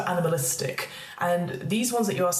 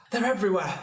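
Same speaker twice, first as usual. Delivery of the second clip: frightened man; 3 semitones higher, faster than usual. Acted. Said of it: "a frightened-looking man".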